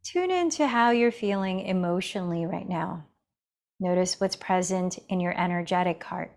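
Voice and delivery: calm, measured meditation guide with long pauses; guided meditation. Real, not acted. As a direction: gently guide them into the breath, leaving space between phrases. Leads breathing meditation.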